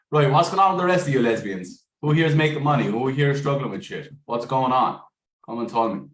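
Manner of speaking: rally the group loudly; calling out. Real, not acted.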